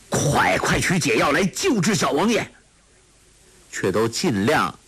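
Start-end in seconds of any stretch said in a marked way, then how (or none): 0.1-2.5 urgent calling. Acted. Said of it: "连叫".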